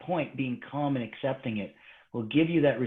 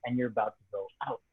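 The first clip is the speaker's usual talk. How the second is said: normal talking voice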